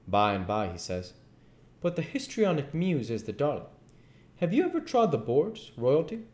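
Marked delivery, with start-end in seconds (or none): 1.8-6.2 pompous duke. Acted. Duke voiced in the story.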